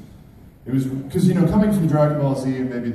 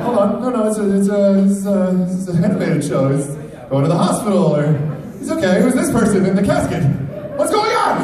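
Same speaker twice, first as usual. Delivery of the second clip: high, loud, panicked rising disbelief; alarmed disbelief; 9 semitones higher, 6 dB louder than usual. Retold or imitated. Fan reacting to a favorite's funeral, high panicked protest. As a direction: protest like the scene can't be real. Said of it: "I'm like".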